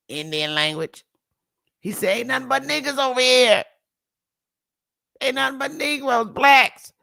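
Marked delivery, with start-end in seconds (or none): 2.2-6.9 raised, high-pitched take in Ebonics; mock Ebonics. Host rewording an old document for listeners, mock Ebonics. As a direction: loosely put it into Ebonics, pitched up. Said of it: "if I put that in Ebonics".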